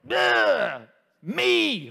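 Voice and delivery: put-on high, loud whiny toddler voice; whiny baby voice. Mocking a toddler arching its back, high and whiny. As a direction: whine it like a selfish baby. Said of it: "It's like".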